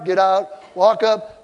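usual speaking voice

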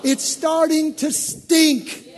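preacher mocking old hurt's stink; disgusted. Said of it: "ooh, it starts to stink".

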